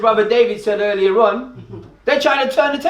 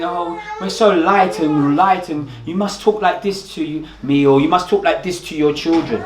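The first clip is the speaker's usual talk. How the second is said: mock prim white voice; 5 semitones lower than usual. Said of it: "these Caucasians try to make you think".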